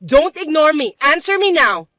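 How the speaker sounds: mother-in-law scolding her son's wife; angry scolding. Acted. Mother-in-law snapping at her daughter-in-law, angry.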